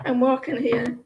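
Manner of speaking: understated New York imitation; Yankee accent. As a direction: toss it off in a mock Yankee accent. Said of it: "Yankee accent".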